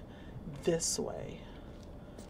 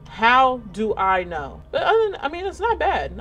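laughing; 5 semitones higher, 5 dB louder than usual. Real, not acted. Lost player cracking up at getting lost, laughing. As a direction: laugh through the question at yourself.

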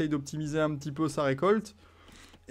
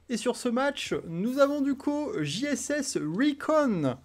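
slow, high ringside announcer call; fight promoter; 7 semitones higher, slower than usual. Acted. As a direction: draw out the names like a boxing MC. Announcing the players in the match.

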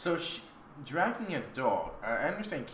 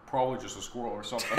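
Jessie's voice; 2 semitones lower, faster than usual. Acted. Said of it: "You do her voice".

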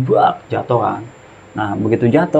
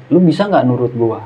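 mildly raised, annoyed demand; retold snapping; 2 semitones higher, 4 dB louder than usual. Fed-up friend ordering injured hiker to obey, retold snapping. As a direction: snap at him, but held back. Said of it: "akhirnya gua bentak".

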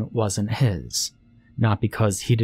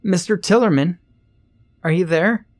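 high, raised calling; shouted; 10 semitones higher, 4 dB louder than usual. A narrator's reading. Ernest alerts Mister Tillerman to the theft, shouting. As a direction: call urgently over the commotion. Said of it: "little Ernest shouted".

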